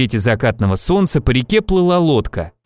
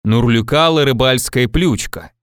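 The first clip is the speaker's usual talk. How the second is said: mildly solemn storytelling; solemn, with expression. A narrator's reading. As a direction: recite nonsense words in all seriousness. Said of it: "торжественно с выражением". (торжественно, с выражением)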